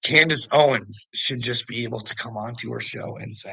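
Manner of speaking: usual speaking voice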